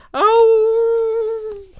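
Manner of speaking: long, high, loud "ow-ooo" howl; dog howl. Acted. Dog howls over missing frog.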